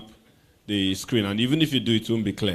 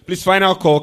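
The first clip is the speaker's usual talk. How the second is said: lilting hostess announcement, pitched up; gracious society hostess; 6 semitones higher, 4 dB louder than usual. Pretend. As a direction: call it like a polished airline hostess. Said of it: "Perhaps let me sound like I'm a, a hostess".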